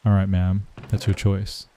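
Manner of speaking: an even, unruffled store manager's answer; lightly voiced calm manager, no heat; calm reply. Manager calmly answering the storming customer, mildly soothing. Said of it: "The manager just responds calmly".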